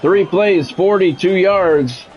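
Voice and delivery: measured TV announcer replay breakdown; walk the viewers through the replay; play-by-play commentary. Acted. Gamer narrating his own game to viewers, announcer read.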